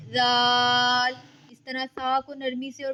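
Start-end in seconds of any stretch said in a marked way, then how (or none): 0.1-1.2 जाल held long, soft and without hiss; long soft zaal. Shown as a demonstration. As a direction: draw जाल out gently. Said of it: "जाल को भी इसी तरह अदा करेंगे". (जाल लंबा और नरमी से)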